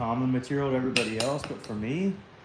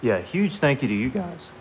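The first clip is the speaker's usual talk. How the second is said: voice cracking up an octave; 2 semitones higher than usual. Real, not acted. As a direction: voice breaks upward mid-thanks. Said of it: "Sorry, my voice cracked".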